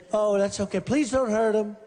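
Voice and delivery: gently, almost sheepish; mock gentle. Speaker mimics his gentle request to police, mock gentle. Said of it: "I was very gentle".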